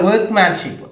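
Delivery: വർക്ക്മാൻഷിപ്പ് with its first syllable punched high; first-syllable stress. Shown as a demonstration. Teacher showing where stress falls, first syllable of വർക്ക്മാൻഷിപ്പ് stressed. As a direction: hit the start of വർക്ക്മാൻഷിപ്പ്. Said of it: "ഫസ്റ്റിലാണ് stress".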